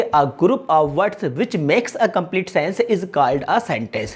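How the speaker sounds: very slow, each word spaced out; teacher reading a definition aloud at dictation pace. Shown as a demonstration. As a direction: dictate the definition slowly for students to note. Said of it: "मतलब कि".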